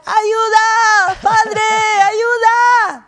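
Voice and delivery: high, loud drawn-out cry to God; preacher's demonstrative high shout; shouted plea. Acted. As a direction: cry out to the Father for help, acted at full voice. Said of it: "nos falta gritar".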